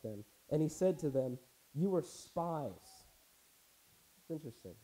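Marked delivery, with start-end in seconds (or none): 1.7-3.1 slow, drawn-out stern accusation; harsh. Acted. Joseph accusing his brothers of spying, harsh. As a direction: accuse them deliberately, each word stretched. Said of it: "He spoke to them harshly".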